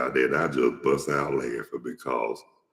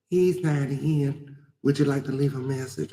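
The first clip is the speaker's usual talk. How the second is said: answering the phone; 11 semitones higher than usual. Retold or imitated. Person answering the prank call.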